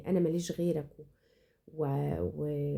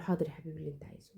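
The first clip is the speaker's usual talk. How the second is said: "حاضر يا حبيبي اللي أنت عايزه" said softer and fast, just giving in; quick soft give-in; 3 semitones lower, 7 dB quieter, faster than usual. Shown as a demonstration. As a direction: rush through "حاضر يا حبيبي" quietly, no reproach. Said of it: "بس حاضر يا حبيبي اللي أنت عايزه بنظرة العتاب".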